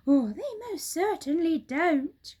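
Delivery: high excited monkey; monkey crying out. Acted. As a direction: Mugglewump agreeing eagerly. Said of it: "cried Mugglewump".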